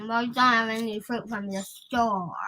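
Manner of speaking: talking with mouth full; words round a mouthful of crackers. Real, not acted. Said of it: "Are you talking with your mouth full?".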